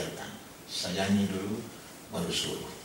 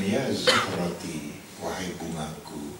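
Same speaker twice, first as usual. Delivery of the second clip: tender endearment; 2 semitones lower, much slower than usual. Retold or imitated. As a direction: call her gently, like a flower. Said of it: "Zainab disapa dengan". (panggilan mesra, pelan dan lembut)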